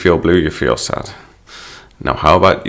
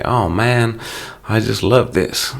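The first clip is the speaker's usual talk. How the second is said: acted delight, pitched higher; gushing exclamation; 5 semitones higher, slower than usual. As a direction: gush as if you love it. Example of an emphatic exclamation.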